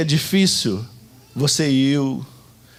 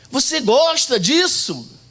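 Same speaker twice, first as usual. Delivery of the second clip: ordinary delivery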